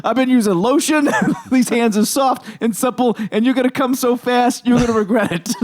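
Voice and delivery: lightly voiced Jersey mobster; a hint of a tough-guy mobster threat. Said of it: "French mobsters sound just like Jersey mobsters".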